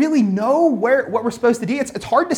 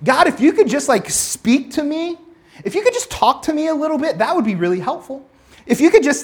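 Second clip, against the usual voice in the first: pleading prayer; 3 semitones higher than usual. Retold or imitated. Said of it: "what we'd like".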